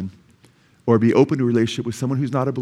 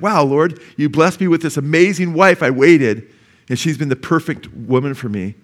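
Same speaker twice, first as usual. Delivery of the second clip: grateful prayer; 2 semitones higher than usual. Retold or imitated. Husband thanking the Lord for his wife, joyful. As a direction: thank God with delight.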